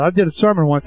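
normal talking voice

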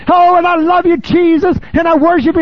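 mocking a churchgoer singing to Jesus in service; mock worship gush. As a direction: overdo the pious praise. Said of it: "You're in a worship service".

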